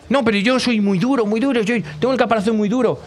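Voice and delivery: proud little turtle insisting. Acted.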